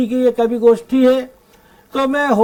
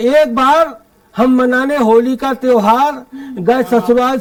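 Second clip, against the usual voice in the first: measured, lilting verse delivery; comic poem recitation; 3 semitones higher than usual. Acted. Poet reciting his Holi visit to the in-laws, comic verse recitation. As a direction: declaim the rhymes to a live audience.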